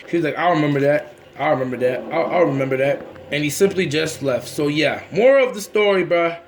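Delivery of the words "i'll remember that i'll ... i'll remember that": low, repeated grudging warning; acted-out sore loser's vow; muted threat. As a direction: drop the pitch and repeat it as a threat. Retold threat from backing-down friend.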